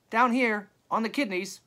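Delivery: high, loud hail; calling back. A narrator's reading. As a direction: shout back from down the hill. New voice answers from afar.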